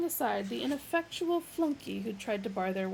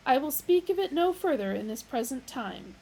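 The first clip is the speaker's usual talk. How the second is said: loud, higher, grand computer voice; Deep Thought's voice; 5 semitones higher, 6 dB louder than usual. A narrator's reading. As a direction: pronounce it like a lofty machine. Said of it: "said Deep Thought".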